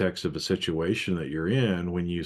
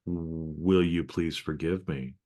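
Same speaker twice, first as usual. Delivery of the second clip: loving apology; slower than usual. Retold or imitated. To partner, a slow sincere plea for forgiveness. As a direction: ask forgiveness tenderly. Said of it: "that has a totally different kind of loving energy".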